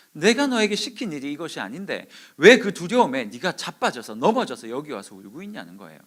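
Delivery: mild scolding in God's voice; rebuking. Retold or imitated. Preacher as God reproving runaway Elijah, sternly rebuking. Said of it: "엘리야를 책망하고 있는 중입니다".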